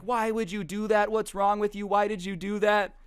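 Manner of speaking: high-pitched mock outrage; retold high, indignant protest; outraged protest. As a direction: whine it up high in disbelief. Splashed driver protests.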